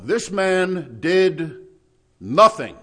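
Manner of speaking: very slow build, then NOTHING blasted out loud; a slow buildup that explodes on Nothing; tombstone pronouncement. Acted. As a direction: drag out This man did, then slam Nothing like a verdict. Reading imagined tombstone inscription.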